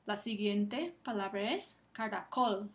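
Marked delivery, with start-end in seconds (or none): 1.9-2.7 "caracol" with emphasis on final COL; stress on COL. Shown as a demonstration. Teacher presenting the next word to students, final stress in "caracol". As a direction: land firmly on the last syllable of "caracol". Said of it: "Está sobre la última sílaba".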